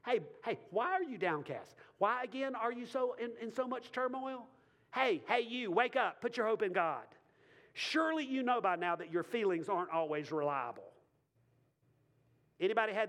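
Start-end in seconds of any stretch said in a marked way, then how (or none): 0.0-10.9 firm rousing rebuke; scolding his own soul. Retold or imitated. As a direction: shake your soul awake. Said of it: "He's instructing his feelings".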